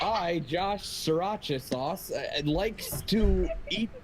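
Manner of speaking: slow, lightly put-on intro voice; drawn-out mock self-introduction; goofy impersonation. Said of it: "Best impersonation".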